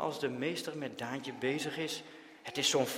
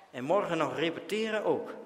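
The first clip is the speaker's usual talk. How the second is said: usual speaking voice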